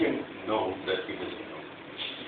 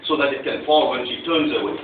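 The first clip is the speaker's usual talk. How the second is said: retold yell; 3 semitones higher, 3 dB louder than usual. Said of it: "I yell at my wife".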